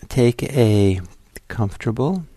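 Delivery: unhurried, with long silences between phrases; guided meditation. Real, not acted. Teacher settling listeners into posture to close their eyes, guided meditation. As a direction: ease them slowly into stillness, phrase by phrase.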